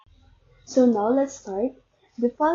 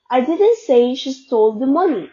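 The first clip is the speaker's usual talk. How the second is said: "she" stressed, sentence said louder; 5 dB louder than usual. Shown as a demonstration. Student showing someone else stole it, stress on "she". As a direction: punch the word "she". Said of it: "meaning maybe someone else stole it".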